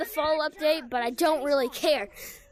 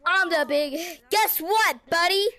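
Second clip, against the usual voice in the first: taunting boast; 4 semitones higher, 4 dB louder than usual. Real, not acted. Taunting another player.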